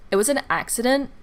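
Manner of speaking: sassy quote with a rising end on an; snippy, rising on "an accident"; with attitude. Retold or imitated. Friend snapping at the angry customer, sassy rising tone. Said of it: "With attitude".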